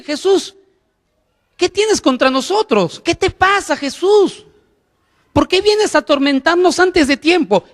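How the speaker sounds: high, tormented voice of a demon. Retold or imitated. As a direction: voice the possessed man crying out at Jesus. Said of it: "el endemoniado sale al encuentro".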